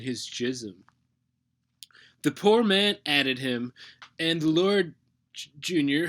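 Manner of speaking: solemn psalm recital with emphatic openings; mock scripture reading. God Junior reading his parody psalm to viewers, mock scripture reading. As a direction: proclaim each verse, pausing around the name.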